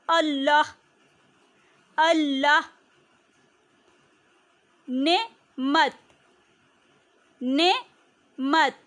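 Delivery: each word said slowly and clearly, twice over; slow word drill. Shown as a demonstration. Teacher drilling key words slowly for children, clear and deliberate. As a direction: spell out every word for the kids. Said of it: "इसके अहम अल्फाज हैं".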